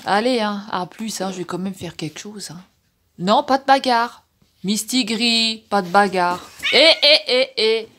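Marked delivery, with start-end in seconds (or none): 3.2-6.4 slow, louder warning to the cats; firm scolding. Real, not acted. 6.7-7.9 much louder warning calls at the cats; sharp calling out. Real, not acted. Shouting at fighting cats.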